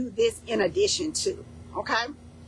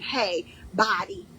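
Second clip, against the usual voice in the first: "Hey, body" said slowly, lightly, to your own body; slow gentle greeting; slower than usual. Pretend. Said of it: "You're saying".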